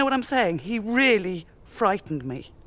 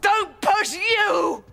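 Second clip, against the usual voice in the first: high, drawn-out incredulous yell; slow shouted mimicking retort; outraged shout; 11 semitones higher, 4 dB louder, much slower than usual. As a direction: throw it back, stretching every word. Throwing the warning back.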